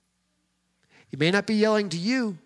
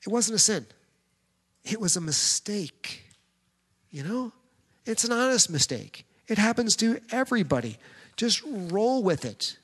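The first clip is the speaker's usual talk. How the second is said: gently lifted, softer reassuring voice; acted soothing, easing off at the end; husband's reassurance; 3 semitones higher, 3 dB quieter than usual. Husband comforting his wife over a mistake, mildly reassuring.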